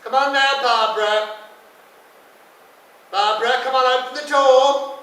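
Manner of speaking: loud, high coaxing calls through a door; coaxing men. Retold or imitated. Men coaxing Barbara through bathroom door, loud calling. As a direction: call her out like orderlies. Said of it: "they knocked on the bathroom door and said".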